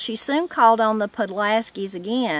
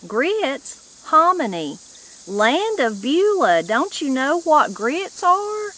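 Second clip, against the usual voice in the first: astonished; 6 semitones higher, 4 dB louder than usual. A narrator's reading. Granny astonished at no grits.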